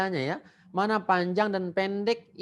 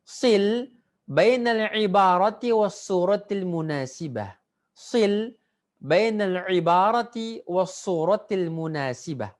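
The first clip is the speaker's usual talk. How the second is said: model reading of the instruction; 3 dB louder than usual. Shown as a demonstration. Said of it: "Ikuti seperti yang saya baca".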